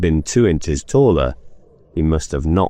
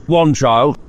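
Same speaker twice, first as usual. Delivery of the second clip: put-on old Scrooge; 8 semitones higher, 4 dB louder than usual. Scrooge corrects ghost.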